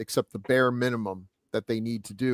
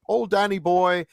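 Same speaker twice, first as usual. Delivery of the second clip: put-on higher-pitched caricature of an Irish accent; mock Irish accent; 5 semitones higher than usual. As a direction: put on a stagey Irish lilt. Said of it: "if you're doing an Irish accent".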